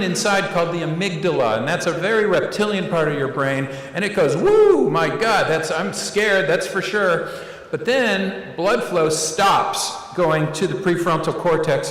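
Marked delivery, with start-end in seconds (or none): 4.3-7.3 scared yelp. Acted. Amygdala voiced as a scared reptile.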